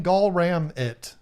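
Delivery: slow, puzzled "Gall Ram it"; reading odd guess. Retold or imitated. Host reads a viewer's weird guess, puzzled. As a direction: spell out "Gall Ram it" slowly. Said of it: "keep saying".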